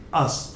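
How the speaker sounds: us as a light uhs, no y; correct ending. Shown as a demonstration. Teacher gives learners the rule, correct pronunciation. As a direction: say us with a neutral vowel. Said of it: "It is always".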